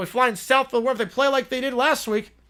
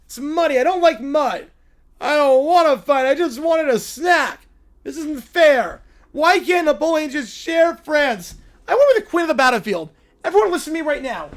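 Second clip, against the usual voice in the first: loud, bratty princess whine; spoiled little princess; 3 semitones higher, 5 dB louder than usual. Acted. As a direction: stamp your foot like a spoiled child. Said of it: "Little Princess is very spoiled".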